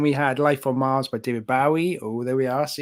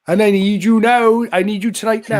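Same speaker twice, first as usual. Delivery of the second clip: overly Welsh; 5 semitones higher, 5 dB louder than usual. Retold or imitated. Bandmate showing the overly Welsh line, exaggerated Welsh accent. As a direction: lean into a sing-song Welsh lyric. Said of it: "the overly Welsh line".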